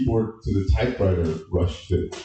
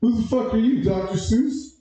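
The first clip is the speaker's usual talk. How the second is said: incredulous retort; 12 semitones higher than usual. Retold or imitated. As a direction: scoff at the rhyme in disbelief. Comic retort to rhyming answer.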